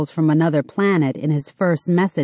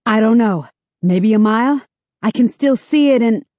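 higher, louder urgent voice; urgent raised voice; 5 semitones higher, 4 dB louder than usual. Acted. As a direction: call out urgently over the line. Mark on phone after attack.

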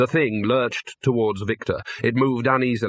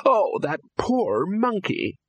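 distressed cry; 9 semitones higher, much slower than usual. Acted. Ginger's distress.

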